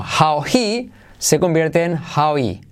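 slow "how he" running into one with the H of he dropped. Shown as a demonstration. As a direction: glide how into he without the H. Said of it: "saltamos la H de he". ("how he" unido, sin la H)

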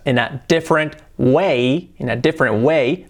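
"different" as DIF-rent within the phrase; measured model of "different way"; two syllables. Shown as a demonstration. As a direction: squeeze "different" into two beats. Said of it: "dos sílabas".

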